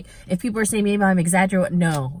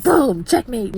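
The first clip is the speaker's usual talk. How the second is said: triumphant boom; 4 semitones higher, 5 dB louder, slower than usual. Retold or imitated. Triumphant retold punchline.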